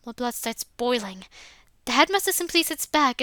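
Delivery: ordinary talk, nothing marked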